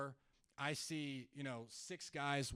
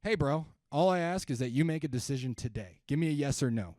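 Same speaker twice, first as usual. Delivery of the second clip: pushy car salesman; 7 dB louder than usual. Retold or imitated. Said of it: "somebody says".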